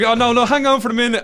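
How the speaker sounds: very high, loud mock female voice; imitating the wife. Wife stalling her waiting friends, high-pitched imitation. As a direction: put on a loud, squealing wife voice. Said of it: "And she's like".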